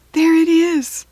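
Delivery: put-on high, loud excited girl; eager, bright exclamation; excited cry. A narrator's reading. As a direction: spot it and call out with glee. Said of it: "said Kirsty".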